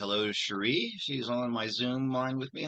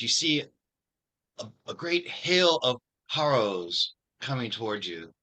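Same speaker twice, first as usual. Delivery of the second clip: imitated Italian accent, pitched up; thick Italian accent; 3 semitones higher, 5 dB louder than usual. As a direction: play an Italian dungeon master warning of danger. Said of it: "with a thick Italian accent".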